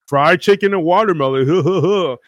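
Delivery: mock stand-up delivery with a forced chuckle; hammed-up punchline, fake huh-huh laugh; hack comic. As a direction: parody a cheap comic laughing at his own joke. Mocking a hack racist stand-up comic.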